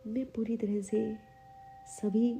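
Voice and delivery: measured affirmation delivery with long pauses; unhurried meditation-guide reading; guided affirmations. Acted. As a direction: state each affirmation calmly, leaving room to repeat it. Leads guided self-esteem affirmations.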